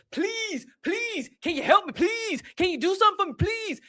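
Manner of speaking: a quiet, pitiful mock plea; mock begging. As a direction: beg like a helpless protester, hammed-up. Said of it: "you begging and asking".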